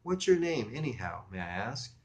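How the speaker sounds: lightly affected English politeness; affected English accent. Acted. Woman asks caller's name, putting on slight English accent. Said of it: "She was getting an English accent".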